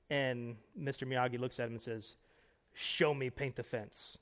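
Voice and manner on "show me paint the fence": understated attempt at Mr. Miyagi's Japanese accent. Preacher quoting Mr. Miyagi to Daniel-san, in a mild Japanese accent. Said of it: "that's the best accent I can do".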